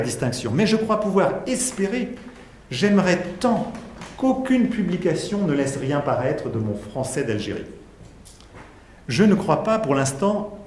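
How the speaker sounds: measured, emphatic reading of a philosophical text; lecture à voix haute. Acted. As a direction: read the extract out, marking each phrase. Lit un extrait de Derrida. (lecture posée et appuyée d'un texte)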